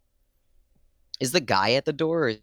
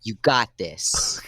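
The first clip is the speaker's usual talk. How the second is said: slow encouraging whisper; slower than usual. Acted. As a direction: whisper it close and slowly. Coaxing him to shove the vampires.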